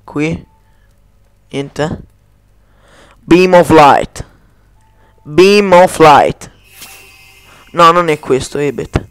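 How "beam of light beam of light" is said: slow, solemn incantation; casting a spell. Pretend. The streamer casts a spell in the game, slow and solemn. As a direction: intone the spell slowly.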